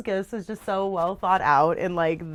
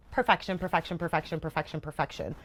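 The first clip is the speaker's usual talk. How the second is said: trailing off softer and lower each time; dreamy repeat dying out; fading whisper; 3 semitones lower, 6 dB quieter than usual. Real, not acted. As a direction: let the word fade away.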